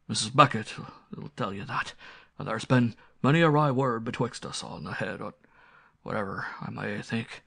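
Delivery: lightly voiced old servant in rustic dialect; old country butler. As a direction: defend yourself mildly, with weighty pauses.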